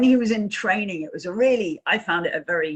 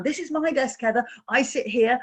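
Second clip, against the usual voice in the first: higher-pitched, chirpy introduction; chirpy showing-off; 6 semitones higher than usual. Retold or imitated. Colleague introducing her desk to a visitor, chirpy. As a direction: play the keen colleague showing off.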